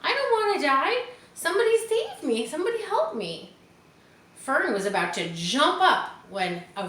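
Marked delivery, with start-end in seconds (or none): 0.0-3.6 high, loud frantic cries; terrified piglet pleading; panicked pleading. A narrator's reading. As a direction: beg for your life. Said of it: "screamed Wilbur".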